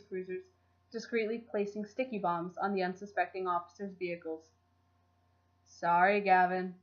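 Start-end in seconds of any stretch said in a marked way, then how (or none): 5.6-6.7 sing-song voice. Acted. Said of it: "called back in a sing-song voice".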